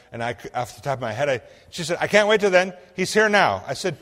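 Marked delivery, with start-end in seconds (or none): 2.0-3.6 eager, high and loud, can't hold back; bursting with urgency, pitched up; excited caller who can't wait. Retold or imitated. Excited wife calling on phone.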